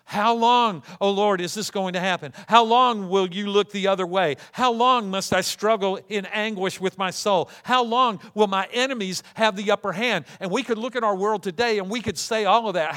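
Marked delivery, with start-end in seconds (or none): 0.1-10.2 loud, anguished cry of how long; frustrated lament. Retold or imitated. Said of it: "after crying out in frustration".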